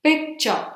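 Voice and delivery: "picture" with the first syllable pitched high, falling on -ture; stress on first syllable. Shown as a demonstration. Teacher showing where the stress is, first syllable punched. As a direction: hit the PIC in "picture". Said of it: "the stress is on the vowel P".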